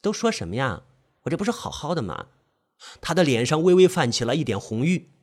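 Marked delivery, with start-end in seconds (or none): 0.0-2.3 coy scolding. Acted. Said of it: "嗔怒道".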